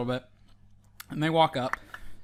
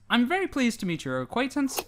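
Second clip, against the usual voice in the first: polite giant; 7 semitones higher than usual. Acted. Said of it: "He says".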